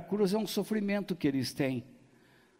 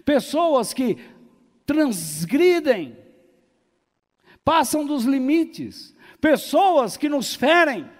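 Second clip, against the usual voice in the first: loud, high, drawn-out pulpit cries; forceful preaching; 8 semitones higher, 8 dB louder than usual. Real, not acted. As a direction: build phrase by phrase, stretching key words. Pregação em força total. (pregação inflamada, alta e pausada)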